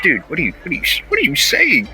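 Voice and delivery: rising baffled question; incredulous. Retold or imitated. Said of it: "it's just like".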